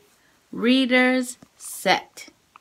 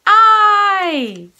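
I called out loud and high; big voice; 6 semitones higher, 7 dB louder than usual. Shown as a demonstration. Teacher shouting sight words for kids to repeat. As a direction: shout the word out for the class. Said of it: "Big voice".

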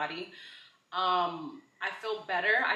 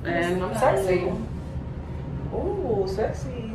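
sarcastic; 3 semitones higher, slower than usual. Real, not acted. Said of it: "sarcastic about compression garment".

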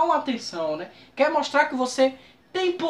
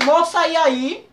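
1 slangy street greeting; 4 semitones higher, slower than usual. Retold or imitated. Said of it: "Cheguei logo assim, meio na gíria".

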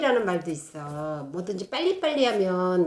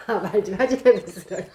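laughing through the repeated words; 4 dB louder than usual. Real, not acted. Daughter echoes her mother's scolding line, laughing. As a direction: chuckle while echoing the line. Repeating mom's quote, amused.

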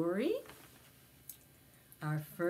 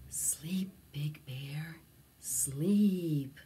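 lower, breathy hushed call; whisper; 3 semitones lower, much slower than usual. Acted. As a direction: murmur it to a sleepy bear. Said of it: "An old man whispered".

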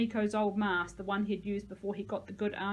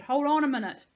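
high, very loud appeal; shouted; 5 semitones higher, 9 dB louder than usual. A narrator's reading. Narrator stalls the boy above, shouted. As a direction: yell for a moment's pause. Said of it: "I shouted".

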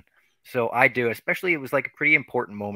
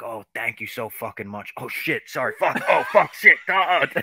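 imitating a rock guitarist; 4 semitones higher, 4 dB louder than usual. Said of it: "And Slash was like".

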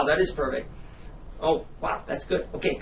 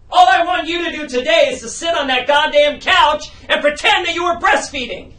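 exasperated, raised voice; angry shout; 5 semitones higher, 3 dB louder than usual. Acted. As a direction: yell it at the actress. Director losing patience with actress.

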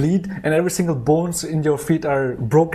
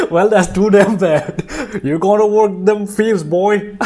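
laughing, mock-tough boss voice, louder; mock harsh boss; 6 semitones higher, 4 dB louder than usual. The boss barking at a lazy new hire, mock-tough and laughing. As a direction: bark at him like a redneck foreman, half laughing.

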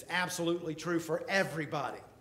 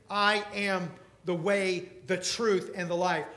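slow, loud build to a booming Lord; preacher's crescendo ending on Lord; building climax; 9 dB louder, slower than usual. Acted. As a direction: climb to the final word. Climax of sermon argument.

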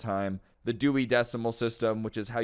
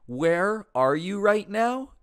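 high, loud, slow and scornful; condescending librarian; 8 semitones higher, 5 dB louder, slower than usual. Retold or imitated. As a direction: drag it out like talking to a fool. Librarian belittling a kid.

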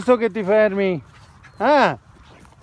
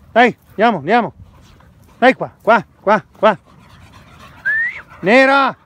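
talking to a dog; 4 semitones higher than usual. Real, not acted. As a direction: coax the dog to follow. Calling the dog. (incitare il cane a seguire)

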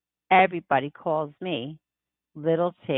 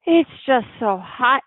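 sighing mother; 5 semitones higher than usual. Acted. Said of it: "Then she sighs".

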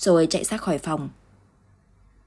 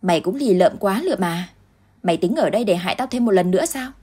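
taunting; 4 dB louder than usual. Acted. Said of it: "luôn nói những lời khó nghe".

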